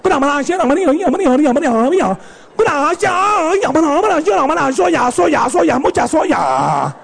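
singsong fake Asian gibberish; mock devoted wife. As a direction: parody the submissive wife from the movie. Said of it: "toda abnegada le dice".

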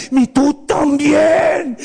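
drawn-out mock-angry shout; furious mom. Mom accuses the second son, stretched angry shout. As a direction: imitate an enraged mother, stretching the words. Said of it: "viene furiosa, enojada".

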